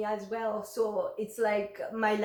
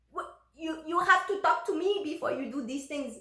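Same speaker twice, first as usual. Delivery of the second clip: higher-pitched retold shock; mock shocked objection, pitched up; 7 semitones higher than usual. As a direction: imitate a taken-aback husband protesting. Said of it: "And he was shocked".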